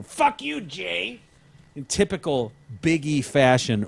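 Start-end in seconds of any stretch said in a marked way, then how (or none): 0.0-1.2 high mock outburst; imitating Ronaldo. Host voicing the autistic patient, high mock outburst. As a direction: fling it out high like a careless kid. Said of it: "and, you know".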